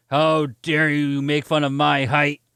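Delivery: loud, drawn-out mock outrage; imitated angry yelling. Drunk guy confronts the storyteller over his height, mock angry yell. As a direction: act out an offended yell, stretching the words. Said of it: "he's yelling at me".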